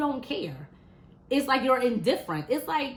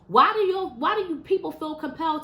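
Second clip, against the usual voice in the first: louder, higher burst of exasperation; exasperated outburst; 4 semitones higher, 4 dB louder than usual. Real, not acted. Ranting to viewers about violence at kids' events, exasperated louder outburst. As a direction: throw the question out in real frustration.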